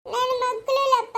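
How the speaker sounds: tearful, wailing protest; weeping lament; crying. Acted. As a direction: cry it out helplessly. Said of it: "ಅಳ್ಬೇಡಮ್ಮ".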